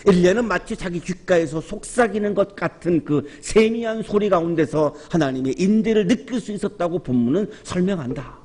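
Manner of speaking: ordinary delivery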